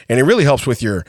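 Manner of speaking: low impression of the doctor, drawing out the ending; doctor imitation. Doctor telling patient about a pill, lightly imitated low voice. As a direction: lightly imitate a doctor, slowing on the last phrase. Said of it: "That's how he says it".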